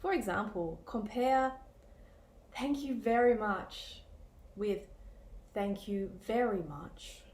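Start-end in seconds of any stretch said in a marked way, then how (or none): 2.5-4.0 genuinely grateful thanks; mean every word of thanks; sincere. Shown as a demonstration. Teacher contrasting a thank you, sincere and warm. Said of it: "The first example is not sarcastic. It's sincere". 5.5-7.2 sarcastic. Shown as a demonstration. Teacher contrasting a thank you, dry and sarcastic. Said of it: "the second example is sarcastic".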